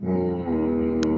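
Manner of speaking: ordinary talk, nothing marked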